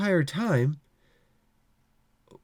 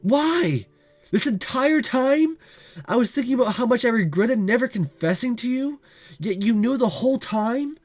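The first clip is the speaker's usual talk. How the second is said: raised and higher, accusing and wounded; hurt and angry; 4 semitones higher than usual. Acted. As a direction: let the hurt spill into anger at him. Confronted, hurt she was never told.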